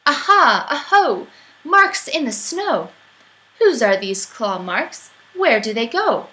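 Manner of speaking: eager little explorer; bright, bouncy child voice; excited child calling. Acted. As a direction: kid tracking footprints, calling out.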